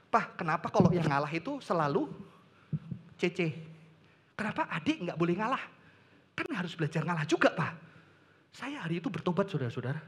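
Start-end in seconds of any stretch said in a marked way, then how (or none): 0.1-7.7 low, soft imitation of a child's question; child questioning father. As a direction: gently voice a child respectfully challenging Dad. (menirukan anak bertanya pelan kepada ayahnya)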